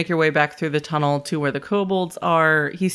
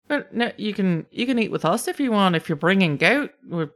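insistent, lightly Scottish lilt; kobold Scottish brogue; 4 semitones higher than usual. Acted. Kobold invites Reese to eat, light Scottish brogue. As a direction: invite them in a mild brogue. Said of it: "Scottish brogue".

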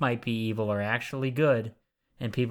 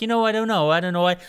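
higher, louder mock confusion, hands up helpless; hammed-up bewildered Patricia Arquette; 5 semitones higher, 5 dB louder, faster than usual. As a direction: play the baffled heroine, overdone. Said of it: "Patricia Arquette's like".

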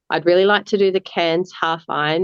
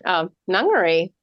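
retold intro; 5 semitones higher than usual. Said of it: "like that".

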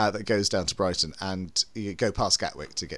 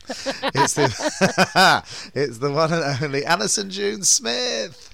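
grand announcer introduction; 9 semitones higher, 6 dB louder, much slower than usual. Acted.

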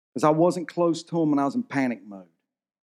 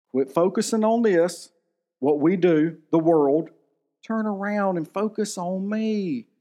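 easygoing Jesus; 4 semitones higher than usual. Acted. Jesus reassuring disciples, acted.

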